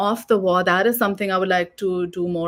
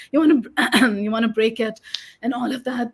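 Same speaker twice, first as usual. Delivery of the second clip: hoarse, losing her voice; strained hoarse throat; 4 semitones higher than usual. Real, not acted. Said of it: "I'm losing my voice".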